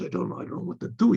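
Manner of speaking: shaken, quick, whispered. Retold or imitated. Son-in-law shaken after the mother-in-law's attack, quick frightened whisper. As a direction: breathe it out in a hurry, rattled. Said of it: "he's all shaking".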